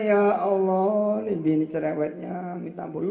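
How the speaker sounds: a hint of a fed-up husband praying; mock prayer complaint. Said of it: "eh bilang". (doa mengeluh setengah bercanda)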